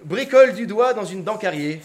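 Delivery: narrating through real laughter; laughing narration. Real, not acted. Narrator laughing at his own story as he reads. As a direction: read it while laughing. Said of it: "Elle rit".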